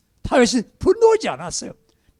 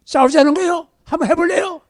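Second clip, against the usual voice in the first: higher, louder provoking challenge; picking a fight; 7 semitones higher, 4 dB louder than usual. Retold or imitated. Spouse snapping back during a quarrel, loud and provoking. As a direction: dare your spouse to fight. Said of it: "그렇게 하는 거예요".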